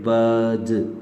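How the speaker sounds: बर्ड with a long central vowel, no r; British "bird", vowel straight into d; British non-rhotic pronunciation. Shown as a demonstration. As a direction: say बर्ड slowly, r silent before d. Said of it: "हम आर को नहीं पढ़ते".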